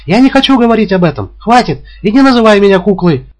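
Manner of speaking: high, loud furious cry; breaking into a shout. A narrator's reading. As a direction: she snaps and shouts at him. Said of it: "Она срывается на крик". (срывается на высокий громкий крик)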